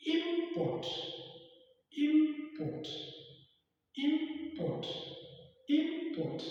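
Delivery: "import" with the stress on "port"; stress on second syllable. Shown as a demonstration. Teacher demonstrating word stress to learners, "import" stressed on "port". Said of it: "You observe that our stress lies".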